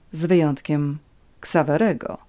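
ordinary delivery, nothing marked

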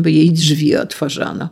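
plain reading voice

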